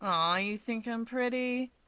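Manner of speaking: slow, mock-sweet coo; lightly mock his sweetness back at her. A narrator's reading. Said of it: "Toya coos".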